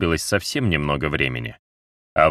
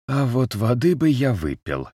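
battered man voice; 7 semitones higher than usual. A narrator's reading. Battered man asks for water.

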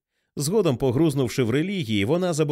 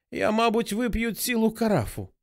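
хрипкий крик; 9 semitones higher than usual. A narrator's reading. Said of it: "хрипко закричала мати".

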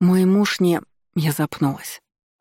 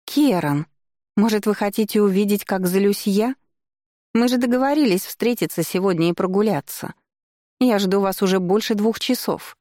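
put-on higher, whiny spoiled young lady; a jealous lady complaining to Keran, capricious and higher; 5 semitones higher than usual. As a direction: pout it out like a jealous rich girl. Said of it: "капризный голос Марны Духлак".

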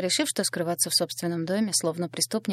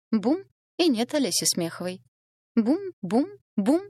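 higher, louder furious yell, booming each бум; angry shout; 5 semitones higher, 3 dB louder than usual. A narrator's reading. Жена в ярости кричит мужу о гибели соперницы, злой крик. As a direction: hurl each бум at him in rage. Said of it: "Зло закричала Алиса".

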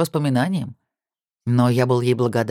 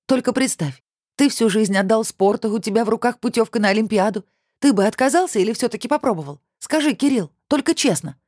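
raised voice; 8 semitones higher than usual. A narrator's reading. Olya presses Kirill about the Olympics, raised high voice. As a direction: press him, voice lifted high. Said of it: "Она повысила голос".

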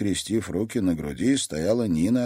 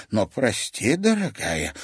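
calm; 5 semitones higher, slower than usual. Acted. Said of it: "спокойно ответила".

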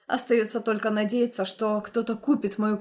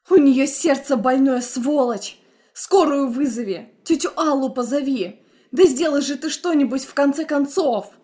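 louder, higher frantic orders; angry shout; 3 semitones higher, 5 dB louder than usual. Acted. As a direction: yell at him to do something. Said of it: "Очередной крик вырывается".

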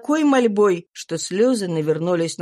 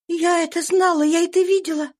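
higher, urgent burst from a desperate mother; impetuous; 11 semitones higher than usual. A narrator's reading. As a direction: rush it out with fervour. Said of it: "порывисто проговорила она". (порывисто, голос выше)

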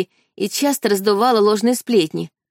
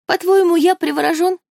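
much higher and louder, outraged; indignant outburst; 10 semitones higher, 3 dB louder than usual. Acted. Brother to sister who calls him enchanted, outraged high outburst. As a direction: fling the question back at her.

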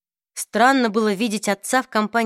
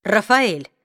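threatening; 3 dB louder than usual. Acted. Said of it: "угрожающе произнёс Люк".

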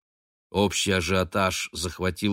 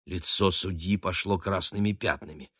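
usual speaking voice

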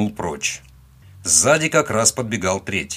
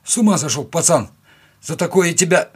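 громко и выше, возмущённо; наорать на пацана; крик бандита; 8 semitones higher, 5 dB louder than usual. A narrator's reading. Бандит орёт на героя. (бандит возмущённо кричит на пацана, голос вверх и громче)

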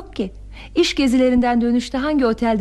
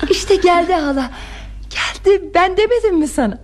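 higher, eager and triumphant; excited triumph; 5 semitones higher than usual. Acted. Niece to aunt as the doorbell rings, excited triumph. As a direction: announce it with rising excitement.

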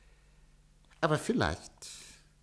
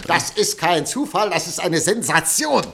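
high, loud, rushing with excitement; can't contain the sensation; excited; 4 semitones higher, 4 dB louder than usual. Acted. Editor thrilled by the scoop.

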